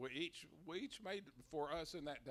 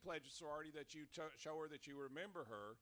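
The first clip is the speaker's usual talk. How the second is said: mock sales letter; 2 semitones higher than usual. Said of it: "said, said".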